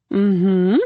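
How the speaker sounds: trying to sound convincing. A narrator's reading. Narrator nods along to Jay's sailing lesson, trying to sound convincing. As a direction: hum agreement as if you follow. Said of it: "trying my best to sound convincing".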